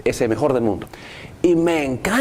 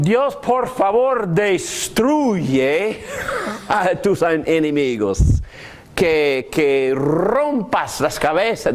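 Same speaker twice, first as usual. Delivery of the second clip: salmista que maldice; 3 semitones higher, slower than usual. Retold or imitated. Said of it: "así oran los salmistas".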